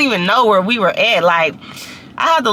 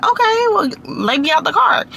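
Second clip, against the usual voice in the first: higher-pitched imitation of a defiant friend; mock defiant retort; 7 semitones higher than usual. Friend answering the angry driver, mock defiant. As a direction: answer back in a raised, put-on friend's voice.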